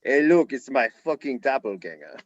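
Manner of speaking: imitated coach showing off a lookalike; Jurgen Klopp. Reporter delivers coach's punchline about lookalike fan, mock German accent. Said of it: "he goes".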